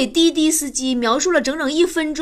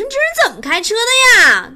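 retold angry complaint; 10 semitones higher, 6 dB louder, faster than usual. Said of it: "我下来我就急了".

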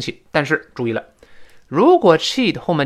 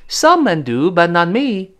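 wronged; 4 semitones higher, 3 dB louder than usual. Acted. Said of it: "还是觉得委屈嘛".

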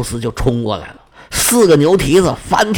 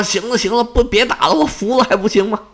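begging bull; 6 semitones higher, faster than usual. Acted. Beaten bull begs for mercy.

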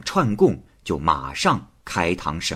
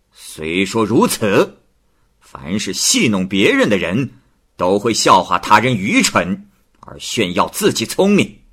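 measured magistrate; 3 semitones higher, 4 dB louder than usual. Acted. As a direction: lay out the reasoning sternly. 太守训诫王氏. (太守慢条斯理地训诫王氏)

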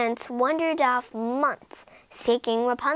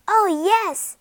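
delighted; 9 semitones higher, 7 dB louder than usual. Acted. Accepting the proposal.

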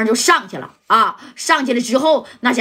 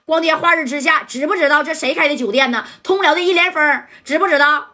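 higher, indignant shout at intruders; mild mock yell; 5 semitones higher than usual. Hotel manager yelling at the men kicking the door, higher and indignant. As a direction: puff up and yell, pulling rank. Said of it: "这经理就喊了".

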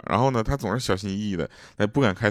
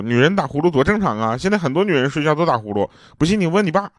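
higher-pitched, mock-indignant wife defending herself; imitating flustered mom; 7 semitones higher than usual. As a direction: act out mom getting defensive, pitch climbing. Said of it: "我妈就急了". (模仿妈妈急了的语气)

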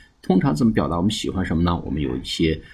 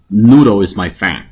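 emphatic announce; 2 semitones higher, 10 dB louder than usual. Shown as a demonstration. Teacher announcing key phrase.

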